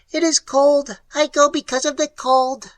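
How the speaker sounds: a calm, odd creature; alien creature voice. A narrator's reading. Creature answers the explorers in a high, strange voice.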